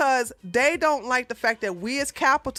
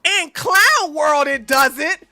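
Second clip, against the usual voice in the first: mock announcer; 3 semitones higher, 8 dB louder, slower than usual. Real, not acted. Mocking announcement.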